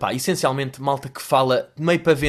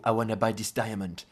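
mock American accent; 5 semitones lower, 7 dB quieter than usual. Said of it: "que é tipo".

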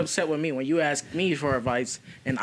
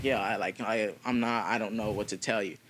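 quoting himself; 8 semitones lower, 10 dB quieter than usual. Retold or imitated. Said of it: "I was like".

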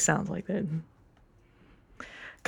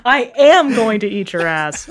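"I am going to eat your ass." with am punched; stress on am. Shown as a demonstration. Player ends the inflection game stressing am. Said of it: "change the inflection".

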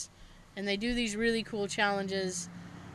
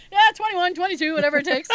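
louder, higher hammed-up movie line; Mister Mom movie quote; 7 semitones higher, 8 dB louder, faster than usual. Riffing a movie joke about the pipe, hammed-up. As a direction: quote it like a cocky know-it-all. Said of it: "a joke from Mister Mom with Michael Keaton".

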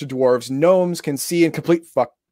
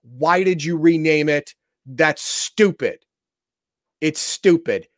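slow exasperation; slower than usual. Real, not acted. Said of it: "I'm pissed off".

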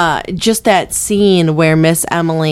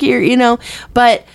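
ordinary delivery

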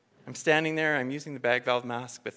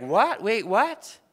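surprised; 6 semitones higher, 9 dB louder, much slower than usual. Retold or imitated. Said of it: "People are like".

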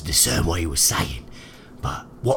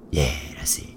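whispering; 3 semitones lower than usual. Acted. Whispered aside.

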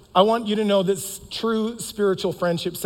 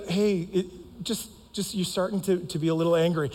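gentle reminder; 5 dB quieter than usual. Retold or imitated. Would you just gently remind me.

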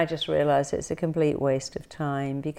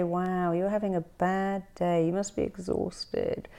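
sympathetic; 3 semitones higher, 3 dB quieter than usual. Retold or imitated. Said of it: "when you say".

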